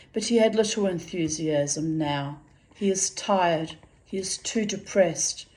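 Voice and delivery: measured literary reading aloud; story narration. A narrator's reading. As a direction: read the story out with deliberate phrasing. Reads fiction aloud.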